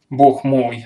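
startled cry; exclaiming. Acted. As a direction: blurt it out in alarm. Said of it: "вскричал солдат".

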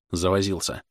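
ordinary delivery

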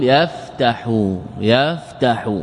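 يفتح in slow syllables, yaf-tahu, with a after the t; fatha on the ayn. Shown as a demonstration. Teacher giving an example verb, slow syllable-by-syllable demo. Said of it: "العين".

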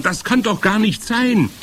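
high-pitched disbelieving cry; calling out. A narrator's reading. Other witches refuse to believe her, calling out. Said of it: "riefen die anderen".

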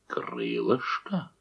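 low, slow menacing growl. A narrator's reading. Lyubeshkin growls at the cook over the meat, low and slow. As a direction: drag the word out in a low growl. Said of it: "зарычал он".

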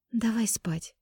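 high soft whisper; pillow talk. A narrator's reading. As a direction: whisper it sleepily, coaxing. Sleepy invitation in bed.

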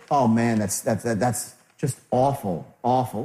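overdone low commiseration; disingenuous sympathy. Acted. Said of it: "a little bit disingenuous".

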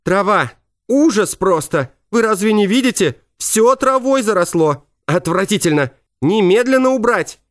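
high squealing falsetto tirade. A narrator's reading. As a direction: screech the scolding up high. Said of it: "такая же визгливая тирада".

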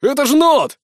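high, loud surprised shout from the crowd; exclaiming bystander. A narrator's reading. A man in the crowd recognises the slave, high loud exclamation. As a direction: call out in amazement. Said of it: "воскликнул кто-то из толпы".

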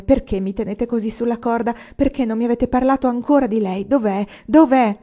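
exasperated exclamation. A narrator's reading. Anania presses the widow for answers, exasperated. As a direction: push harder with each question. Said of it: "esclamò poi".

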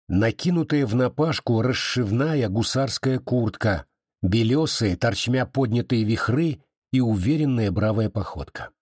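ordinary delivery

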